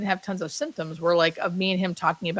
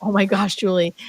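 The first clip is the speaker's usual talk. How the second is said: voiced, a touch louder, delighted; joyful exclaim; 3 dB louder than usual. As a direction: let the joy burst out. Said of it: "he just kept going".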